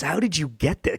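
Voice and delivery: hushed mock disbelief; imitated shock. Retelling his friend's reaction to the card, imitated shock. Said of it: "he was just so shocked".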